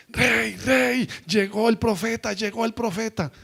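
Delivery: a hint of a maid calling the king; servant announcing.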